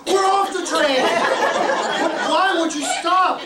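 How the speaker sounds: loud, high exasperated shout; yelling. Retold or imitated. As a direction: yell back in a re-enacted quarrel. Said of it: "what are you yelling at me for".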